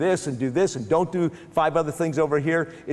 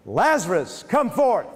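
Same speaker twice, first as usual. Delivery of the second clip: calling out; 6 semitones higher, slower than usual. Retold or imitated. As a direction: shout it out to the dead man. Jesus calls dead man out.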